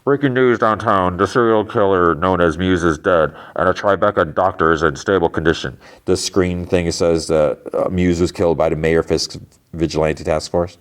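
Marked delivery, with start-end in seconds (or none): 0.0-5.8 lightly imitated news bulletin; TV newsreader. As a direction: read it like a breaking-news anchor, lightly. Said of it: "the volume of the T V".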